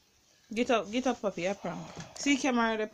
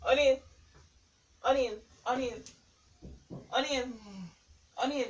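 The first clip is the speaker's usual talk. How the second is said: repeated urgent calls, pitched up; calling to rouse someone; 3 semitones higher than usual. Real, not acted. Prankster calling partner to wake up, urgent calls. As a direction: call a partner's name to wake them.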